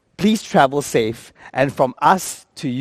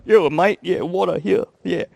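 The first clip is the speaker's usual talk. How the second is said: put-on casual Australian accent; Australian flight attendant; 2 semitones higher than usual. Qantas attendant handing over water in turbulence, casual Australian accent. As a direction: do an offhand Aussie steward. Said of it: "you take a Qantas plane".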